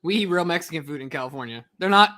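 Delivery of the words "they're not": louder, slow indignant correction. Real, not acted. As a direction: set him straight, offended. Defends real Mexican tacos.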